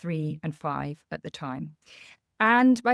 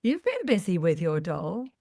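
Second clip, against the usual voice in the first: gently. Retold or imitated. Mum asking her daughter about the cut doll hair, gently. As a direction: gently coax the child to explain herself. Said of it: "So I said very gently".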